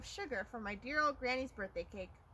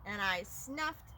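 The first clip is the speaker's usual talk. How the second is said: drawn-out build-up; slower than usual. Acted. Second huff and sneeze.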